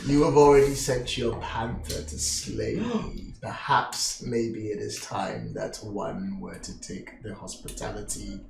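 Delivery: put-on low, hushed, measured old host; mysterious old man, reproachful.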